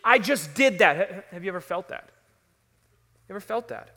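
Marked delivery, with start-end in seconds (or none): 0.0-1.0 mildly anguished, raised-voice self-reproach; remorseful disbelief. Acted. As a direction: act out regret with stressed, incredulous words. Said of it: "filled with remorse and regret".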